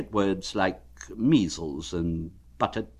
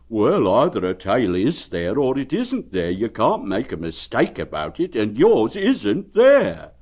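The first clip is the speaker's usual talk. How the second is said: cheerful bear; 2 semitones higher, 6 dB louder than usual. Acted. Pooh asking Eeyore how he is, friendly. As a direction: ask it kindly like a plump bear.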